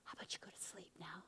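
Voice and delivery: acted sweet compliance, hushing away; coaxing. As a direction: lull him to sleep, sinking into a whisper. Jael coaxes the warrior to sleep.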